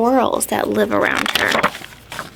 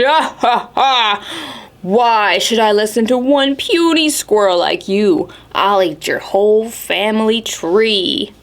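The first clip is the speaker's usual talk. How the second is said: laughing bear. Acted. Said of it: "but then he laughed".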